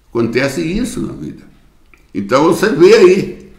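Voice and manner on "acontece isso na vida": softer, settled repeat; a softer second telling; quiet echo. Acted. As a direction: let the point sink in gently. Preacher repeats his point.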